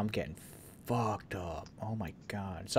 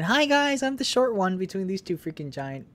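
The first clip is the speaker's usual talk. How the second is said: squeaky little voice; 8 semitones higher than usual. Pretend. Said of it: "just me saying".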